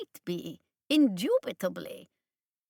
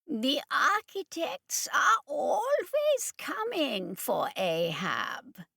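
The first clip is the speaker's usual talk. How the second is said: sadly; 8 semitones higher, slower than usual. Acted. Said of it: "Doctor Shinandri said sadly".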